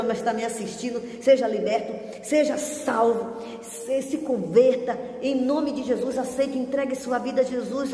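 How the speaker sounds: fervent prayer, calling for salvation; preacher praying over viewers at home. Acted. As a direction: lead the altar call with urgent fervour. Closing salvation prayer, altar call.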